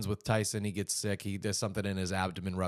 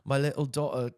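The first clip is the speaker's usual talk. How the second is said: mock Scottish accent; 4 semitones higher than usual. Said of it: "this is not a Scottish accent".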